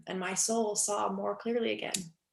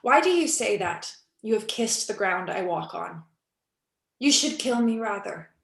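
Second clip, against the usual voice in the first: anguished outcry; 4 dB louder than usual. Acted. Nina's anguished outburst.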